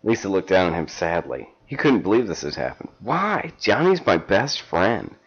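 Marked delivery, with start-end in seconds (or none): 3.0-5.1 high, drawn-out melodramatic plea; anguished protest. Acted. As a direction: protest in theatrical torment.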